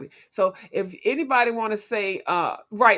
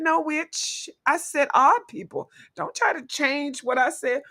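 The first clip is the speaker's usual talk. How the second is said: sassy, higher-pitched mock retort; 5 semitones higher than usual. Voicing sassy Miss Lori snapping back at the host, sassy. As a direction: put on a sassy comeback. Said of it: "she sassy, she says, she said".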